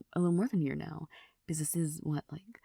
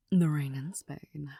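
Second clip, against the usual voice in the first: vocal warm-up; 4 dB louder, slower than usual. Shown as a demonstration. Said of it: "switching back and forth".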